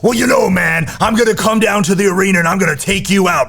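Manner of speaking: high, loud, hammed-up wrestler promo; wrestling promo voice. Shown as a demonstration. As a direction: growl it out like a pro wrestler. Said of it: "do this like a wrestling promo".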